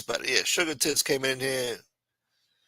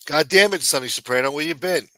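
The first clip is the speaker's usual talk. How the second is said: loud mock-outraged greeting; 2 semitones higher, 5 dB louder than usual. Real, not acted. Greeting a returning viewer loudly.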